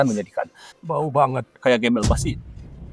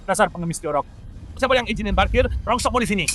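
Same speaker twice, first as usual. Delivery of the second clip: high, contemptuous yelling at a beggar; bentakan kasar; 11 semitones higher than usual. Acted. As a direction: snarl at him to move his junk. Orang kaya membentak pemulung. (membentak dengan jijik)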